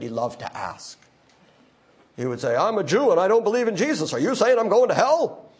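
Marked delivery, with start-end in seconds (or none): 2.5-4.1 light Larry King imitation. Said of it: "more Larry Kingish voice than I just did". 4.1-5.5 a faint hint of Larry King asking a gotcha question; light Larry King imitation. Preacher mimicking Larry King's gotcha question, barely voiced. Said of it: "more Larry Kingish voice than I just did".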